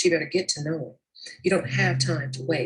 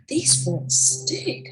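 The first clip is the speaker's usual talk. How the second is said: mocking coworker; 8 semitones higher, 3 dB louder, much slower than usual. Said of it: "she just keep".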